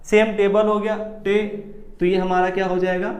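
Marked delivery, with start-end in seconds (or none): 1.2-1.5 टे said with force; teacher stressing the first syllable of table; stressed syllable. Shown as a demonstration. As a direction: punch टे as the stressed part. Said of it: "थोड़ी आवाज़ भी हमारी तेज निकली".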